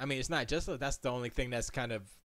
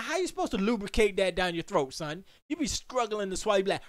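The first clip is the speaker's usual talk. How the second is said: excited rant; 5 semitones higher, 3 dB louder than usual. Retold or imitated. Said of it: "And I'm like".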